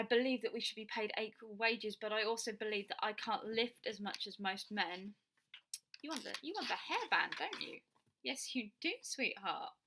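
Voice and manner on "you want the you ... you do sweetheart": cooing to dog. Real, not acted.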